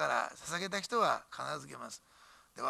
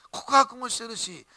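slow and much louder, leaning on each word; slow, loud emphasis; 6 semitones higher, 12 dB louder, slower than usual. Real, not acted. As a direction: hammer the point home. Emphatic preaching point.

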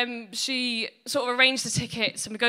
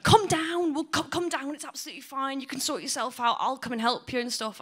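higher, motherly coaxing; mum's voice; 4 semitones higher than usual. Retold or imitated. Son hearing mum invite him home, high coaxing. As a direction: coax like a caring mum. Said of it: "she went".

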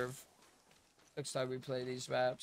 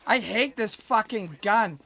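angry; 9 semitones higher, 9 dB louder than usual. Real, not acted. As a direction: rant furiously at the gun. Raging at his shotgun.

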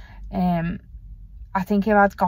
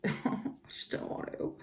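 laughing; 6 semitones higher, 14 dB quieter than usual. Real, not acted. Laughing admission about the operation.

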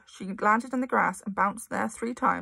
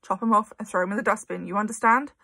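louder, menacing demand; threatening; 6 dB louder than usual. Acted. Trunchbull threatening the terrified girl, louder menace. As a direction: lean in and threaten.

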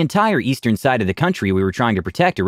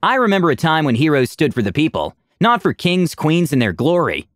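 mild spat words; 5 semitones higher than usual. Acted. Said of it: "he spat".

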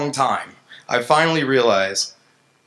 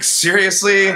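much higher, louder, laughing; laughing disbelief; 8 semitones higher, 6 dB louder, slower than usual. Retold or imitated. Engineer reading simple algorithm, laughing disbelief.

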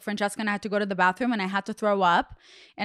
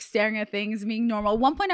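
ordinary talk, nothing marked

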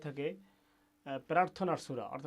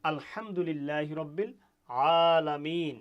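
slow, full Quranic recitation of আলহামদুলিল্লাহি রব্বিল আলামিন; 4 dB louder, slower than usual. Shown as a demonstration. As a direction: recite it slowly and clearly. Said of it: "এভাবে আমরা উচ্চারণ করব".

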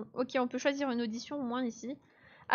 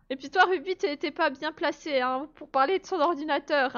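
louder, higher, slowed telling-off; mock scolding; 4 semitones higher, 4 dB louder than usual. Real, not acted. Streamer telling off a viewer in chat, mock stern. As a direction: put a chatter in her place, teasing.

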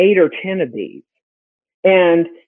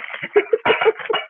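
high breathy laugh; 5 dB quieter than usual. Real, not acted. Laughs at own joke.

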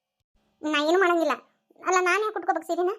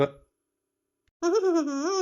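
gloating laugh; much slower than usual. Acted.

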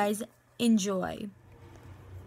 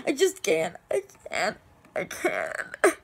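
breaking down; 4 semitones lower, slower than usual. Acted. Acted breakdown after grief outburst.

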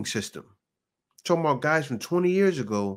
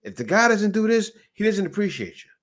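mocking TikTok women; 6 semitones higher than usual. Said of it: "You see woman after woman".

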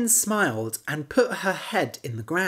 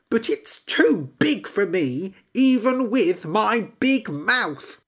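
higher, slow, small-frog voice; little frog voice; 6 semitones higher, 4 dB louder than usual. Acted. Frog sizing up the red house, higher voice. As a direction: frog wondering at the big house. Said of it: "frog speaks".

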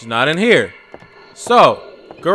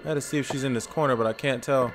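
hushed quick mutter; 4 semitones lower, 15 dB quieter, much faster than usual. Real, not acted. Sneaking through the house.

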